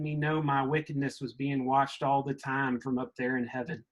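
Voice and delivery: put-on reading aloud in a light mid-Southern accent; mid-Southern accent, like the speaker's grandparents talked. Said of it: "I'm gonna read it in, in that mid-Southern accent".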